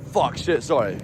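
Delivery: quick apologetic swear, sent up; mock flustered swearing. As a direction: replay your own embarrassed slip. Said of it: "why did I swear like that?".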